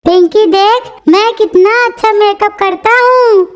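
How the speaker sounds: witch voice. Acted. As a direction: crow it like a proud witch. Witch voice, high cackle. (ऊँची ज़ोरदार चुड़ैल की आवाज़ और हँसी)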